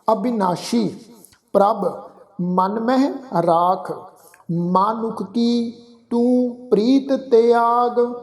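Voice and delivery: unhurried, drawn-out recitation of the verse; slow scripture recitation. Shown as a demonstration. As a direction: chant each word slowly, letting it ring. (ਹੌਲੀ ਹੌਲੀ ਪਾਠ)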